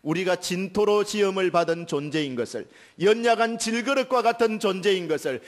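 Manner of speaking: high, loud, impassioned sermon climax; fervent preaching. Acted. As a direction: build up to a ringing pulpit cry. Preaching at full force.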